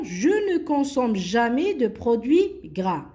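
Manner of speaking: lire « je ne consomme jamais de produits gras » lentement, mot à mot; lecture lente de l'énoncé. Shown as a demonstration. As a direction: dicter la phrase posément aux élèves. (dictée lente et posée)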